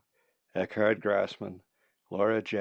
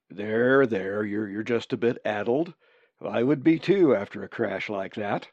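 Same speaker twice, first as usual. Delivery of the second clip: reassuring; 4 dB louder than usual. Acted. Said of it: "Zack's voice was reassuring".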